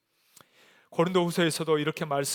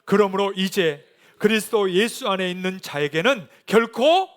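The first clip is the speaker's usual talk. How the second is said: raised, emphatic sermon delivery; forceful preaching; 7 semitones higher, 8 dB louder than usual. Real, not acted. Preacher urging congregation that the old has passed, forceful. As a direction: drive the scripture home to the congregation.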